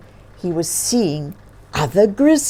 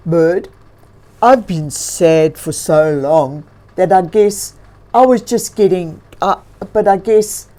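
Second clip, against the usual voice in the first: thankful bear talking to himself; grizzly bear voice; 6 dB louder than usual. Acted.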